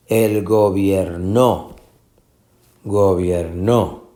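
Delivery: slow gobierno with NO stressed and drawn out; misplaced final stress. Shown as a demonstration. Teacher testing a wrong option, stressing NO in gobierno. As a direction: push the stress to the end, gobier-NO. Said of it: "Esta es la sílaba tónica".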